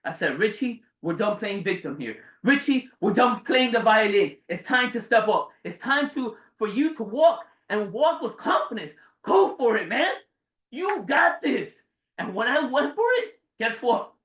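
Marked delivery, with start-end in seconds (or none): 0.4-11.8 pep talk to himself. Retold or imitated. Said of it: "when I talked back to that little seven-year-old boy, I said".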